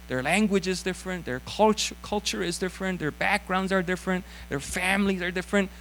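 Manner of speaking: very slow, deliberate English. Shown as a demonstration. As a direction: spell it out slowly in English.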